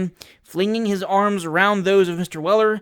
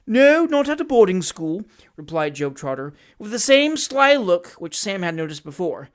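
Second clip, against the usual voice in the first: fawning hypocrite; 4 dB louder than usual. Acted. Job Trotter gushes false feeling to Sam, fawning voice. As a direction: overdo the heartfelt emotion.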